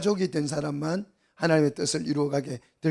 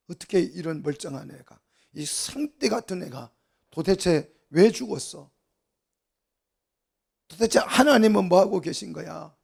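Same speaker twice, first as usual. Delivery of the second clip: indignant protest building to a louder finish; acted anger; 2 semitones higher, 4 dB louder than usual. Mourners protesting a child's death to God, in mock outrage. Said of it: "화를 내는 걸 말해요".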